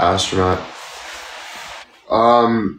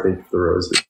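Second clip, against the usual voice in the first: burping; 4 semitones lower, faster than usual. Real, not acted. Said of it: "See, I'm burping like crazy".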